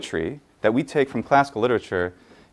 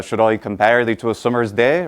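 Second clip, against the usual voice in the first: a light hint of Shakespearean English accent. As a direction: recite it like Shakespeare's own accent. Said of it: "which would have sounded something like".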